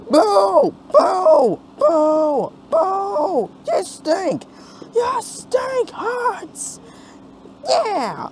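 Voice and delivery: high, loud booing; booing crowd. Acted. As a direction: boo like a crowd of protesters.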